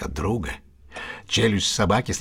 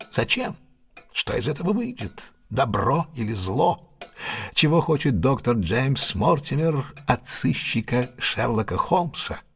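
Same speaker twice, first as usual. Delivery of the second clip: dramatic; 2 semitones higher than usual. Acted. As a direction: savour each question like a cliffhanger. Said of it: "О, это драматический момент".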